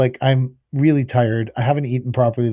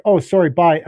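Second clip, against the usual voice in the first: quick, louder, breezy sorry-bye; mock dismissive receptionist; 4 semitones higher, 4 dB louder than usual. Caller mimicking the receptionist hanging up, breezy brush-off. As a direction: toss it off like she can't be bothered.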